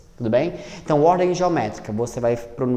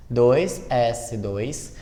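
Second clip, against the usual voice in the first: ditando devagar; much slower than usual. Shown as a demonstration. Professora dita a distribuição.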